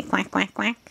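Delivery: three short quacks; light, playful quacking; duck quack. Shown as a demonstration. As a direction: show a toddler how a duck goes. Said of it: "You say".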